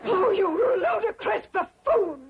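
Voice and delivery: high, exasperated insult; indignant outburst. Acted. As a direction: cry it out in indignation. Woman insults the clumsy suitor.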